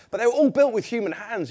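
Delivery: ordinary delivery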